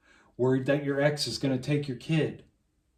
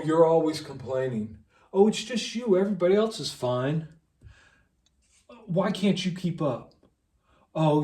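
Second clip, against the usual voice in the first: mocking gaslighter; 2 semitones higher, 4 dB louder than usual. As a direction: sneer it back like the people who brush you off. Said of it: "it's kept up by gaslighting".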